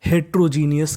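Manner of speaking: हेट्रोजीनियस joined up at speaking speed. Shown as a demonstration. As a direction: say हेट्रोजीनियस in one go, no gap. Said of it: "जिसे हम लोग speed में बोलेंगे".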